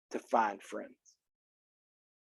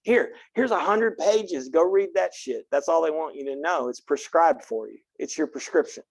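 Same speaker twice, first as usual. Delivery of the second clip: dismissive professor; 3 semitones higher than usual. Retold or imitated. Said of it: "I'm like".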